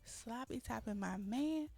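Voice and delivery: mock threat. Retold threat in a fight.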